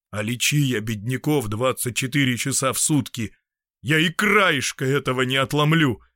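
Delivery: mild despair rising at the end; understated hopeless exclamation. Acted. Doctor admits helplessness to Anna, a touch of despair. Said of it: "с отчаянием сказал доктор".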